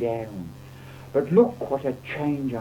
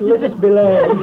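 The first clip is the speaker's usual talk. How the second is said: very loud, higher shout; vicar shouting; 6 semitones higher, 10 dB louder than usual. A narrator's reading. Carried-away vicar shouts to the wedding guests, loud and high. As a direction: boom it from the pulpit. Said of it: "shouted out".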